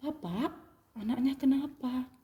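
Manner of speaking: soft, calm questioning; Jesus gently asks the father, softly; gentle Jesus. Acted. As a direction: ask kindly and quietly.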